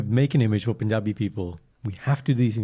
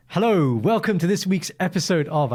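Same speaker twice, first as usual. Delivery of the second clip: higher, slow, drawn-out host greeting; mock podcast intro; 6 semitones higher than usual. Retelling his attempt at the podcast intro, mock host voice. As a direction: stretch out a put-on presenter's welcome. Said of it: "I turned out to be like".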